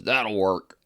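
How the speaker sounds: curt put-on grumpy voice; grump. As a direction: imitate a grumpy worker's curt approval. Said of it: "Mister Grumpy".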